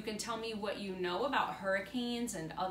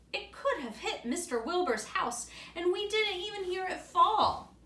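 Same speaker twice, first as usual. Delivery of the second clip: higher, louder with a laugh; excited boy; 9 semitones higher, 6 dB louder than usual. Acted. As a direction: gush about the near miss, amused. Boy excited by fallen tree.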